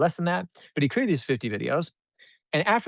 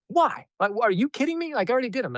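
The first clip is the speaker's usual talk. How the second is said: high, disbelieving complaint; incredulous protest; 9 semitones higher, faster than usual. Retold or imitated. Client objecting to redoing fifty videos, incredulous. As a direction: push the pitch up in mock disbelief.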